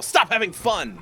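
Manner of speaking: high-pitched mock yell. Playing the Fun Destroyer at other kids, mock yelling. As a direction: call it out like a killjoy. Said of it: "And I would yell".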